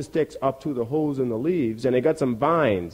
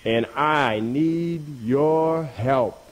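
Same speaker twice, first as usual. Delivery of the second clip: slow, deliberate request; slow appeal; much slower than usual. Real, not acted. Storyteller asking listeners to join the call, slow appeal. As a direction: spell out the appeal word by word.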